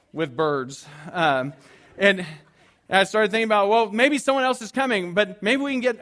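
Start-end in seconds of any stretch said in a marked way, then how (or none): 3.7-6.0 anxious bargaining. Retold or imitated. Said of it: "I started negotiating".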